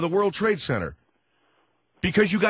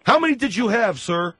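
raised, higher-pitched demand; exasperated, raised-voice questioning; yelling at caller; 4 semitones higher, 4 dB louder than usual. Acted. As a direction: press the caller hard, voice up. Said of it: "Please don't yell at me".

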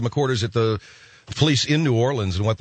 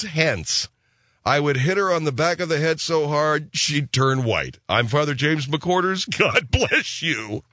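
a hint of an old Irish priest, slow and lilting; lightly voiced Irish father, savouring the words; 4 semitones higher, slower than usual. Priest recalls his police days, lightly lilting Irish. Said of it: "play the snippet when Father McQuarters".

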